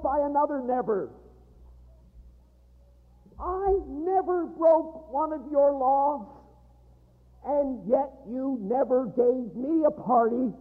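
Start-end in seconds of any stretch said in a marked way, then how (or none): 3.4-10.5 angry resentment. Acted. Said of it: "That's the never of anger".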